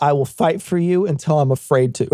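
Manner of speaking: mock politician rally shout. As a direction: ham up a politician's empty vow over a crowd. Mocking a cowardly politician.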